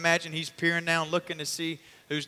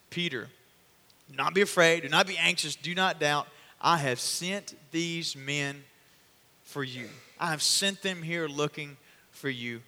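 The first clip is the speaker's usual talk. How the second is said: reassuring. Acted. Holy Spirit reassures Peter.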